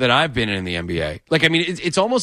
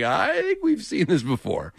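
imitating doubtful fans; 5 semitones higher, 3 dB quieter, slower than usual. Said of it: "who were just like".

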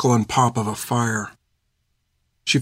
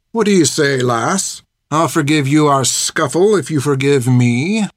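lightly voiced calculating soldier, a little raised; sharp, calculated soldier; 2 semitones higher than usual. A narrator's reading. Soldier offering the lass forgiveness for the scuffle, sharp and calculated. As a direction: taunt her in a sharp, calculated character voice. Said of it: "said the sharp, calculated voice".

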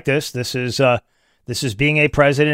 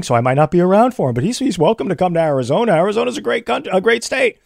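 mock politician dodge; 4 dB louder, faster than usual. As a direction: rattle it off like a slippery candidate. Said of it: "he comes out and he says".

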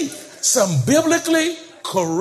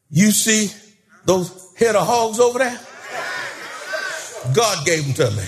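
Shouting John building to a shout; 2 semitones higher than usual. Retold or imitated. Old farmer shows his blessings, working himself into a shout. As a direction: let him build from boasting to shouting joy. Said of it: "Shouting John said".

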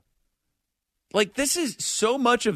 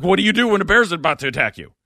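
panicked; 2 semitones higher, 5 dB louder, faster than usual. Retold or imitated. Panicked Googler under bear attack.

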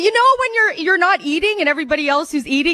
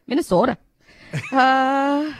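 "Minnesota" in a light Minnesota accent, long round o; 2 semitones lower, slower than usual. Shown as a demonstration. Comic tries her only accent on the crowd, Minnesota accent. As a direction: say "Minnesota" the Minnesota way, drawn-out sota. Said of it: "the only accent I can do".

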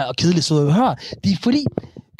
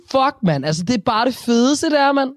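higher, stretched-out Copenhagen street slang; mock Copenhagen slang; 7 semitones higher than usual. Teasing Copenhagen speech to his co-host, in mock Copenhagen slang. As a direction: ham up the Copenhagen swagger, pitched up. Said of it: "Bare laver den der la-la-la-ting".

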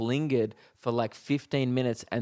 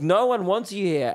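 higher, indignant dismissal; retold telling-off; 8 semitones higher, 3 dB louder than usual. Comic telling the girl she is unwanted, retold telling-off. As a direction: replay a scolding, pitched up. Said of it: "I start teeing off with this girl".

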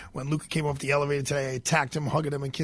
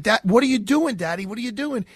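put-on scared little boy; 6 semitones higher than usual. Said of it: "The kid is looking at me like".

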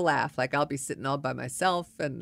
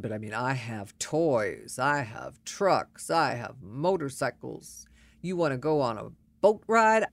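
bragging man; 4 semitones lower than usual. Retold or imitated. Man at the bar boasting to her, mock-pompous drone. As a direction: lightly mimic a self-important guy listing his toys. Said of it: "He would tell me".

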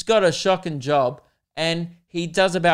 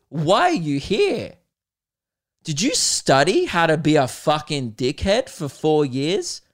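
mock furious rant; 3 dB louder than usual. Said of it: "I'd be like".

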